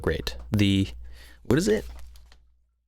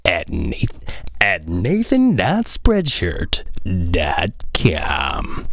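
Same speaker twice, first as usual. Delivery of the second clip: slow radio DJ plug that drops to a whisper at the end; 4 semitones lower, much slower than usual. Shown as a demonstration. Plugging his hoodie in a mock radio DJ voice. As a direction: linger on each word, then breathe the ending. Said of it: "That's good".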